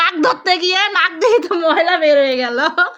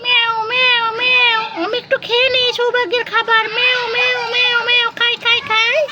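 cat meowing; 6 semitones higher than usual. Acted. Cat eats the food.

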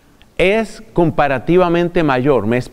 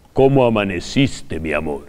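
very low, hushed lover's voice; mock Casanova, sinking low and soft; deep seductive voice; 10 semitones lower, 4 dB quieter than usual. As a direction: put on a deep voice to woo her. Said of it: "una voz profunda".

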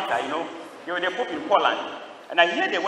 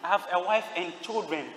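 soft, higher-pitched plea; retold begging; 4 semitones higher, 4 dB quieter than usual. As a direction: imitate a condemned man pleading softly for his life. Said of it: "he knelt down and begged me".

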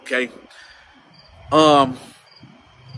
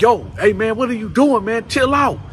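imitated yell; 7 semitones higher, 4 dB louder than usual. Yelling at screaming cellmate.

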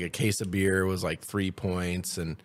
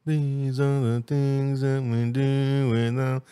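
dramatic slow voice; 4 semitones higher, much slower than usual. Acted. Acting a slow dramatic line.

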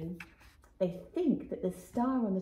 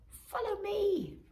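slow conspiratorial whisper; 11 semitones higher, slower than usual. Acted. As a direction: lean in and whisper. Magpie leads the way.

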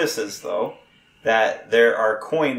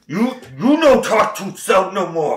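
lightly voiced broken-English goblin; 7 semitones higher, 3 dB louder than usual. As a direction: scold like a dim goblin.

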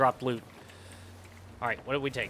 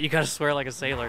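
pirate voice; faster than usual. Pretend. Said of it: "if I do it in a pirate voice".

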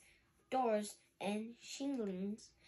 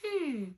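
thoughtful hmm; 4 semitones higher, 4 dB louder than usual. Acted.

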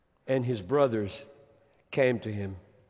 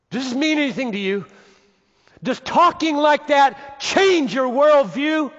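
shouted question; 13 semitones higher, 10 dB louder than usual. Acted. Preacher confronting his congregation, shouting. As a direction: hammer the question at them.

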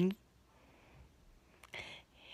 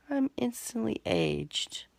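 whispered; 5 dB quieter than usual. Pretend. Old age filter.

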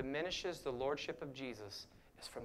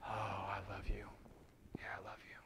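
lower, hushed earnest reply; eager Peter; 6 semitones lower, 8 dB quieter than usual. Retold or imitated. Peter hurriedly assuring Jesus, low and hushed. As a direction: answer eagerly, dropping to a hush. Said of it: "And Jesus is asking him".

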